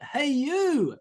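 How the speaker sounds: high calling-out "Hey, you"; mock yell. Calling to strangers in a crowded mall, mild mock yell. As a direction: call out high across a crowd, not really loud. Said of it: "you yell out".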